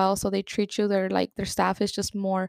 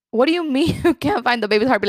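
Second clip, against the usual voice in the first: retold shock, quick and raised; shocked disbelief; 4 semitones higher, 4 dB louder, faster than usual. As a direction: rush the question in stunned confusion. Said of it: "in the moment of confusion and shock".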